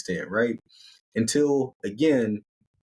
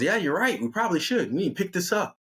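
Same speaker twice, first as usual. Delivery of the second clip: Chris voice; 7 semitones higher, faster than usual. Acted.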